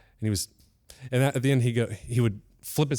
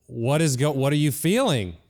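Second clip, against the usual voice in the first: demanding teacher; 4 semitones higher, 3 dB louder than usual. Retold or imitated. Teacher demanding an answer from student.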